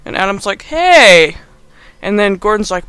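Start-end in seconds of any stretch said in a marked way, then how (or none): 0.6-1.4 loud, high, drawn-out protest; hammed-up cry of objection; mock offended shout. Adam objects to the insulting tape, mock offended shout.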